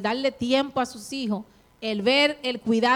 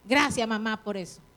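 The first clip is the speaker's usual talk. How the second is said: softened thanks; 3 semitones lower than usual. Retold or imitated. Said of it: "Pero hoy usted dice".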